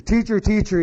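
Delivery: put-on a boy who can't wait to tell the teacher; excited kid. A narrator's reading. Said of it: "boy, he was excited".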